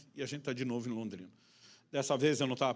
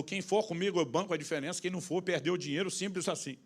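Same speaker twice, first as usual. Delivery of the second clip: higher-pitched mock-indignant declaration; retold anger; 4 semitones higher than usual. Angry lawyer rallying the group to leave, mock indignant. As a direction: lay down terms with raised pitch. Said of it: "ele ficou com tanta raiva".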